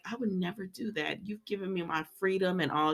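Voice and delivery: soft, hushed imitation; lightly acted soft-spoken appeasing; Sheila. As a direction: drop the volume to placate him. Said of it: "Y'all know how Sheila be talking".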